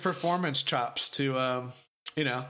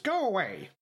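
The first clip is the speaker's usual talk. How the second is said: higher, nasal dismissive voice; nasally Masaka voice; 6 semitones higher than usual. Retold or imitated. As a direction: brush them off in a pinched nasal voice. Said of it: "nasally voice".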